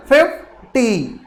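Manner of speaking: slow फिफ्टी, FIF strong and ty weak; stress on FIF. Shown as a demonstration. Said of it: "पहले stressed आएगा".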